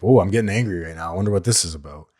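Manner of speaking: calm inner voice. Retold or imitated. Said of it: "notice that emotion coming up".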